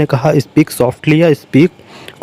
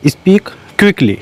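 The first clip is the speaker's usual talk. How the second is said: high, drawn-out teaching voice; slow, emphatic demo; 6 semitones higher, much slower than usual. Shown as a demonstration. Teacher modelling the English phrase for learners, slow and raised. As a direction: stretch it out and lift it for the class. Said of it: "demo of English phrase".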